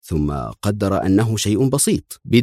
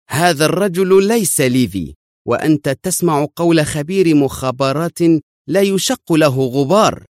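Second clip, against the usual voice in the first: higher pitched, insistent, slowing at the end; nervous irritation; 8 semitones higher than usual. A narrator's reading. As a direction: press the point, agitated. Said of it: "قال شيمون في عصبية".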